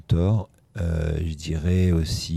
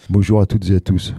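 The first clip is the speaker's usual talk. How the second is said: louder, projected on-air hello; radio host greeting; 5 dB louder than usual. Retold or imitated. Host greeting listeners on a replayed tape, projected imitation. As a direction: imitate a presenter opening the show. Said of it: "écouté mot à mot avec Christophe".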